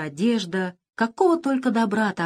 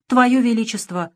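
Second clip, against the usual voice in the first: pleading; 5 semitones higher, 5 dB louder than usual. A narrator's reading. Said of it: "взмолился Крыс".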